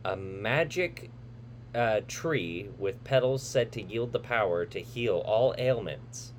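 dramatic trailer narrator voice; movie trailer read. Acted. Reads the movie synopsis.

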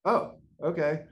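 slow, high startled okay; taken aback, drawn out; caught off guard. Retold or imitated. Student told practice is mandatory, slow startled okay. Coach insists he must come.

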